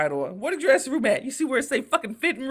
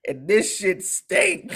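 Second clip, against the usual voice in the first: scolding mom. Retold or imitated. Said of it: "I said".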